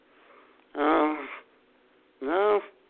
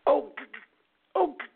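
high, choked-off cries without real volume; mock scream of passion; 10 semitones higher than usual. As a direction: imitate a woman stuck on the first sound. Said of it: "screaming when she goes".

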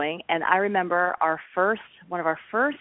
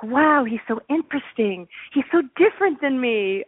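higher, mock-smitten gush; admiring; 5 semitones higher than usual. Woman dating her spouse-to-be, acted admiring wonder. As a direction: imitate being wowed by a new boyfriend.

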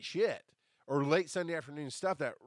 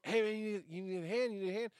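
higher, eager "need a hand?"; eager offer of help; 7 semitones higher than usual. Retold or imitated. A homeless man offering to carry gear, eager and higher. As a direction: pitch it up like a hustler offering help.

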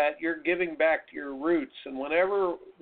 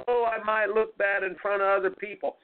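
higher-pitched mock fretting; King Wimp; 3 semitones higher than usual. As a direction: imitate a little doubting voice on the shoulder. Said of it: "he whispers in there".

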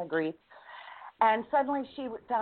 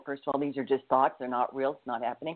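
calming herself; 6 semitones lower than usual. Retold or imitated. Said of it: "I first calmed myself down".

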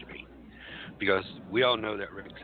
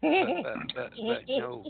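panicked protest. Acted. Panics at match news.

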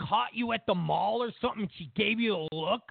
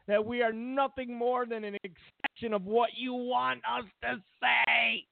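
mock pleading hack; 3 semitones higher than usual. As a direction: beg them to keep it secret, hammed up. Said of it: "Glenn Truss going".

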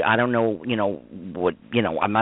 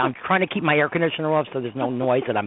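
hot and overheated, slightly rushed; 4 semitones higher than usual. Real, not acted. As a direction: talk like you're sweating and about to faint. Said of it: "I'm sweating it".

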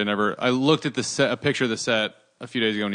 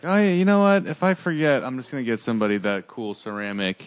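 imagined shopper. Acted. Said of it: "you're like".

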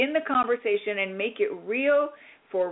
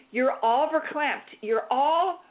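higher, building joy; excited; 5 semitones higher, slower than usual. Real, not acted. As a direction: get swept up in the feeling. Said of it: "coach describing the feeling".

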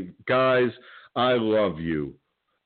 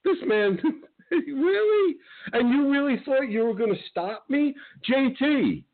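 much higher, laughing in disbelief; scornful laughing; 13 semitones higher than usual. Real, not acted.

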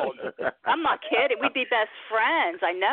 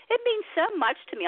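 holding back tears; 9 semitones higher, faster than usual. Real, not acted. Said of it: "I'm gonna try not to cry".

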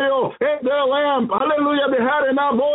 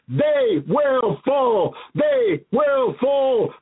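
dragging out each word like a divine verdict; God's stern decree; much slower than usual. Retold or imitated. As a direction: pronounce doom word by word, slowly. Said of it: "he says to me".

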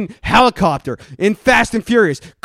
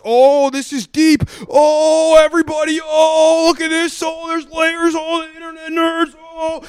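much higher, awed fanboy voice, dragged out; mocking gushing nerd; 8 semitones higher than usual. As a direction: swoon in a high mock-amazed nerd voice. Mocking fans gushing over storyline.

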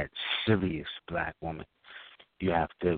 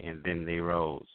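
mock poetic; slower than usual. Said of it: "I'm expecting you to say".

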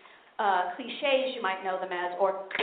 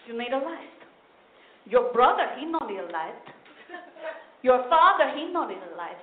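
grumbling grandma; slower than usual. Retold or imitated. Cheap grandmother mocking granddaughter who wants light, sarcastic. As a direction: scoff at the spoiled grandchild.

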